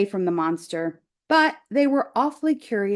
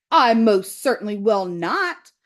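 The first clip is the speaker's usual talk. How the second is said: squawking goose. Acted. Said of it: "squawked the goose".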